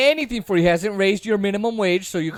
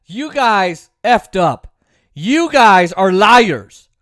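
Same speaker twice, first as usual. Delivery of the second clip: angry accusation; 6 dB louder, much slower than usual. Real, not acted. Angry accusation at Biden voters.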